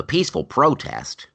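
pointed sarcasm on the phrase; sarcastic. Real, not acted. Host describing the protest to co-host, sarcastic. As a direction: say it as if you don't believe it. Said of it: "I'm, I'm being sarcastic".

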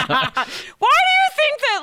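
slow, laughing through the question. Real, not acted. Host laughing while asking John a weird question. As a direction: giggle through it, stretching the words.

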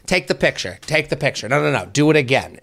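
a hint of a fussing mother; imitated mom. Mom orders the picture retaken, lightly imitated mom. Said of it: "And it's my mom".

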